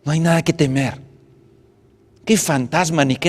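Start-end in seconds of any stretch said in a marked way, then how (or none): 0.0-1.1 loud, high call over the storm; stretched-out shout, much higher and louder. Acted. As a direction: shout across the waves to the boat. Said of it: "Jesús grita".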